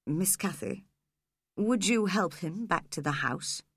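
smooth, mild politeness; villain politely asking the girl for help. Acted. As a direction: put on a polite manner for the girl. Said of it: "said politely to Cathy".

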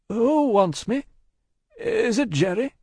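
high, slightly tremulous questions; mildly quavering. A narrator's reading. Passenger asking who seeks him, mildly quavering. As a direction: ask uncertainly with a mild quaver. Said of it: "with mildly quavering speech".

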